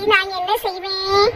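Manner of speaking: slow, soft whimper of put-on tears; milk the sobs to win the son over; fake crying. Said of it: "நீலி கண்ணீர் வடிச்சு". (போலியான அழுகையுடன் மெதுவாக)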